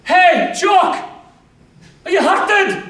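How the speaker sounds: high, loud shout across the dark. Acted. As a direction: call out to his wounded mate. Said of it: "shouts Private McPhun".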